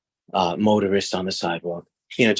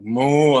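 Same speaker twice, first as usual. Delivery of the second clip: mock moo; 3 semitones higher, 5 dB louder than usual. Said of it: "So I just made a big sound".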